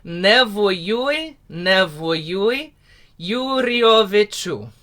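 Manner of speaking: careful recitation of "Yuriovichu"; spoken lyrics. Shown as a demonstration. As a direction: say "Nevoyui, nevoyui, Yuriovichu" slowly and clearly. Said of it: "let's do the words first".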